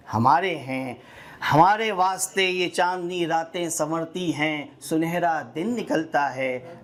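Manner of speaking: measured love-poem recital, phrase by phrase; poetry recitation. Acted. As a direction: recite it as a nazm, lingering on line endings. (नज़्म सुनाने का शायराना अंदाज़)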